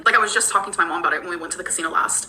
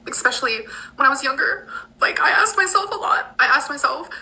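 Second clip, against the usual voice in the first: emotional; 5 semitones higher than usual. Real, not acted. Recalling questions asked when younger, high and emotional. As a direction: voice rising as tears threaten. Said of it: "This does make me emotional".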